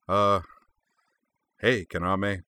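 falsely breezy greeting; feigned bonhomie. Acted. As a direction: act friendly to cover being caught. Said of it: "he said with feigned bonhomie".

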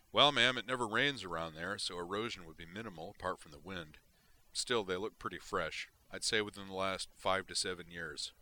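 a hint of a soldier giving a firm field report; Marine sergeant reporting.

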